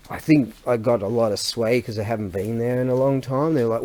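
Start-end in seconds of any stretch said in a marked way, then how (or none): none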